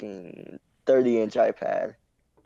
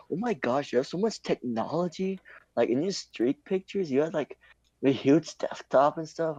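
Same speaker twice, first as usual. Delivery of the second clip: higher, lilting mock amazement; gushing classmate; 4 semitones higher, 4 dB quieter than usual. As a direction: imitate a classmate marvelling at gadgets. Retelling classmate gushing over tech.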